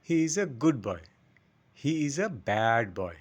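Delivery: slow example with quick "good" and long "bad"; short good, stretched bad. Shown as a demonstration. Teacher giving example sentences, short good and stretched bad. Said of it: "এই উচ্চারণটা হচ্ছে".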